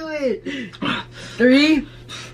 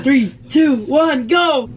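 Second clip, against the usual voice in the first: shouted countdown; 4 dB louder, much slower than usual. Real, not acted. Counting down a dare.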